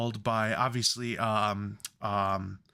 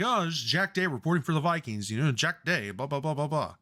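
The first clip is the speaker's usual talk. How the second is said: reporter voice; 3 semitones higher, faster than usual. Retold or imitated. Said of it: "Doesn't Jack Day just sound like a reporter's name".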